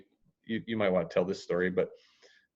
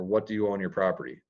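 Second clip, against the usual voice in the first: fast, blunt and matter-of-fact; quick flat-out ask about what they owe; blunt question; faster than usual. Shown as a demonstration. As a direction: fire it off bluntly, no softening. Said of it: "it's very blunt".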